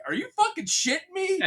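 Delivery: high, laughing mock outrage; exasperated at a terrible movie, laughing; laughing disbelief. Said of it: "and I'm like".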